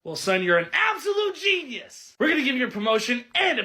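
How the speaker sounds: mock corporate boss, loud and high. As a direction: play the gushing boss. Boss praising employee in skit.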